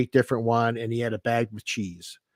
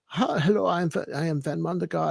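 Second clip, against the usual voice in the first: put-on German accent, pitched a bit higher; 6 semitones higher, 3 dB quieter than usual. Describing a character he made up, speaking as him in a German accent. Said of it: "He had a German accent, and he spoke".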